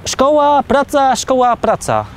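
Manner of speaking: singsong imitation, well above his own pitch; imitating nagging girlfriend. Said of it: "i tylko mi mówiła".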